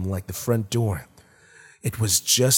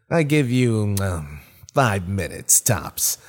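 unearthly voice. Acted. Monster taunting dying man.

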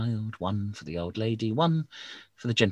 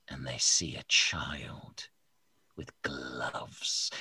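whisper; 8 semitones lower, 5 dB quieter, much slower than usual. A narrator's reading. Storyteller whispering aside.

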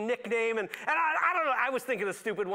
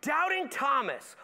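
called-out nickname; 6 semitones higher, slower than usual. Real, not acted. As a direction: announce it like a jeer. Naming the nickname aloud.

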